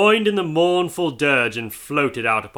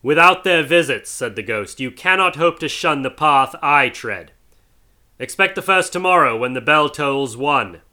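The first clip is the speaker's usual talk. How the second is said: higher, louder grave warning; solemn ghostly warning; 3 semitones higher, 5 dB louder than usual. Acted. Marley's ghost warning Scrooge, solemn. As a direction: warn him with weight.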